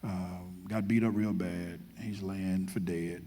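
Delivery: casual street retelling of the parable; lively, slangy sermon retelling; loose paraphrase. Pretend. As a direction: tell the story like a buddy would. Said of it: "the pastor's translation".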